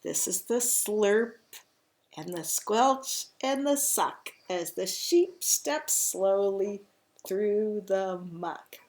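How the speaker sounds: expressive reading, slowing down at the end; picture-book storytelling. A narrator's reading. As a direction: relish the mucky sound words for children. Reads picture book to children.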